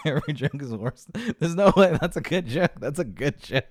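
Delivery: loud, high-pitched outburst after laughing; worked-up protest. Real, not acted.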